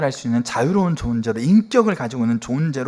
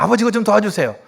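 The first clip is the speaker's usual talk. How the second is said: higher-pitched request for help; acted appeal; 7 semitones higher than usual. Son phoning father with a problem, appealing for help. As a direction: ask as a child leaning on a parent. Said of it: "문제가 있었을 때 연락해가지고".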